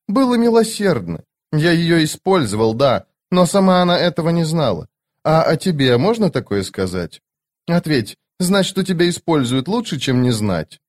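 a lightly voiced stern immortal; Cotillion voice. Cotillion voice again.

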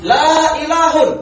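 la ilahun said slowly with the tanwin ending un; wrong reading shown. Shown as a demonstration. Teacher slowly showing students the wrong reading la ilahun. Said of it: "Kenapa kok dibaca a malahan".

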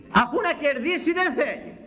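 very high, sustained mock protest; mimicked exclamation. Critics puzzled by a preacher seeking no gain, high mimicked cry. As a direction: imitate a baffled critic crying out.

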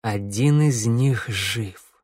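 very slow, dazed repetition; stunned murmur. Acted. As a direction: repeat it to yourself, stunned. Theodor repeats the words, stunned.

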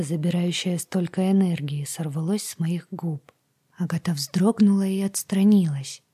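plain reading voice

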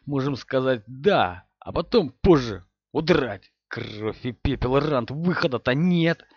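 cracking, frightened and slow; voice breaking. Acted. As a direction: let the voice crack in panic. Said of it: "говорил он срывающимся голосом".

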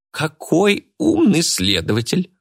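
high, slow, sarcastic praise; mock respectful. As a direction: flatter him with a sneer. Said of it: "уважительно произнесла Мурена".

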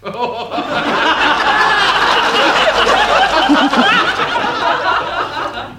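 squealing high laugh; long squeaky fit of laughter; high falsetto giggle. Acted.

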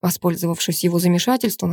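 ordinary delivery, nothing marked

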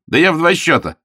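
high, loud boast; Augustine vowing to fix it, determined outburst. A narrator's reading. Augustine storming off indignantly.

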